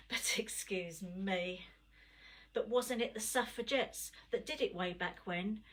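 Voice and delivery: rhythmic spoken word delivery; performance poetry. Acted. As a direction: perform it like a slam poem. Performs her poem.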